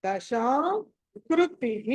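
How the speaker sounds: కృతిః slowly, ending in an echoed "hi"; visarga as "hi". Shown as a demonstration. Teacher showing the visarga, కృతిః ending "ti-hi". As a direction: draw out దశా, then finish కృతిః as "kruti-hi". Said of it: "తీ తర్వాత విసర్గ ఉంది".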